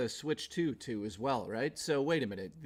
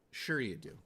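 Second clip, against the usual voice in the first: sarcastic; 3 semitones lower, 5 dB quieter than usual. Acted. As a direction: stress on "Sure", falling: SURE you do. Sarcastic reply to donation.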